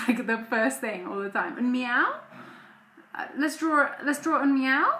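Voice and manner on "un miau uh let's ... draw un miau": put-on toddler voice. Mother imitating toddler wanting cats.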